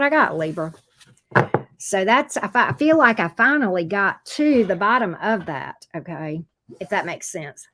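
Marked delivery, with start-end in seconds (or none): 2.4-7.7 talking with food in mouth; words round a bite of food; mouth full. Real, not acted. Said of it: "Hold on, I had something in my mouth".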